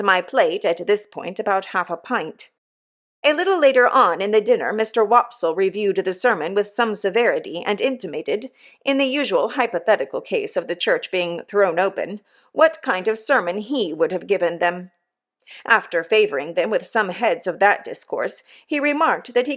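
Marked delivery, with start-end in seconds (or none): none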